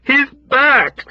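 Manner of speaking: high, loud alarmed shout; loud panicked shout. Acted. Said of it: "someone shouted at him".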